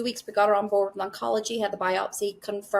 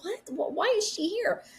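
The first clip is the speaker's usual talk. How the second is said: retold disbelief; 11 semitones higher than usual. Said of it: "and I'm like".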